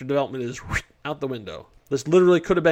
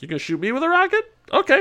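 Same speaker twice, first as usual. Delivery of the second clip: cocky monster taunt; 10 semitones higher, faster than usual. Retold or imitated.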